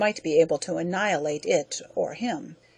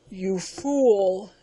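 gasped. Acted. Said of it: "it gasped".

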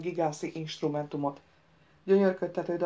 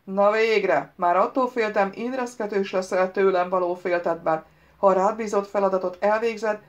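loud, forceful interrogation; commanding challenge; 3 semitones higher, 7 dB louder than usual. A narrator's reading. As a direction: press the prince hard in a raised voice. Unseen voice challenges the prince. (hangos, erélyes számonkérés)

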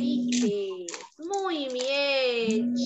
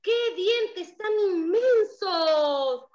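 amazed cat; much slower than usual. Acted. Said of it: "muy asombrado".

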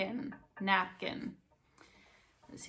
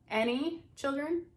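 hostess asking; 7 semitones higher, 5 dB louder than usual. Pretend. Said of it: "E talvez ela vai perguntar".

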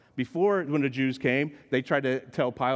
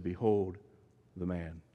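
sympathetic; 7 semitones lower, 6 dB quieter than usual. Retold or imitated. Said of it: "spoken almost in words of sympathy".

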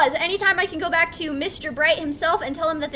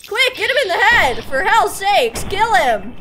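higher, loud, urgent yelling; urgent shout; 3 semitones higher, 5 dB louder than usual. Real, not acted. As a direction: bark orders in the heat of battle. Urging companion in fight.

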